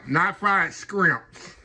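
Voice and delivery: slow "scrimps" with a k sound; mock scrimps. Shown as a demonstration. Cook teases the wrong word for viewers, slow "scrimps". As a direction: drawl out "scrimps" as the wrong version. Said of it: "They're fried shrimp".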